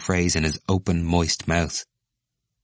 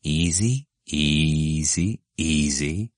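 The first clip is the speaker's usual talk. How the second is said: soothing easy; 2 semitones lower, much slower than usual. Acted. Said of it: "smiling uneasily, and repeated".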